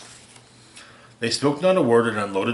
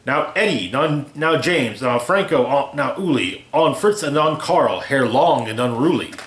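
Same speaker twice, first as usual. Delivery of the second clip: louder, calling names, slowing on some; shouted roll call; 3 semitones higher, 3 dB louder than usual. Acted. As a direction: bark the names out to the henchmen. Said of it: "radioed and shouted and called them by name".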